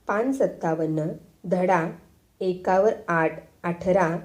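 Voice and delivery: slow, halting schoolboy recital; lightly voiced child reading a lesson; pupil reading aloud. A narrator's reading. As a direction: read it out piece by piece with pauses. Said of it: "पोरगं वाचू लागलं".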